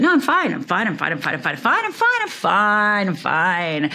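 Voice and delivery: lightly voiced, repeating "fine" quickly; a hint of a teen insisting she's fine; mild mock denial, rattled off; brushing it off. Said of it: "The outside Rhonda".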